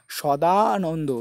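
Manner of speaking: সদানন্দ very slowly, with a long দা; drawn-out syllables. Shown as a demonstration. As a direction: hold the আ in the middle of সদানন্দ. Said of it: "আয় শুধু উচ্চারণ আসছে".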